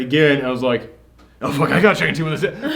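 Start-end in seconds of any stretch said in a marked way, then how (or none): 1.4-2.8 paranoid. Retold or imitated. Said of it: "this movie had me that paranoid".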